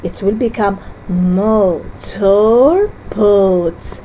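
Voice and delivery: "motor boat" drawn out slowly; slow syllable split. Shown as a demonstration. Teacher shows the finished split slowly. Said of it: "so I split between O and".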